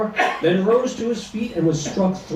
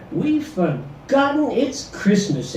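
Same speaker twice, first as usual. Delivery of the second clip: pleading; 5 semitones higher, slower than usual. Acted. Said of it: "Ed said with a plea".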